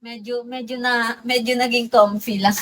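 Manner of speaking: sorry said through a laugh; embarrassed, giggly sorry; laughing apology. Real, not acted. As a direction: apologise while giggling at yourself.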